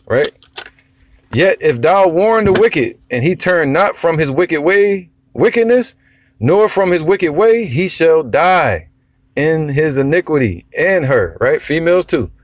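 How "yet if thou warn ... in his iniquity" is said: slow, weighty reading of verse; slow scripture reading. Acted. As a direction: lean on each word of the verse. Reads scripture, slowing down.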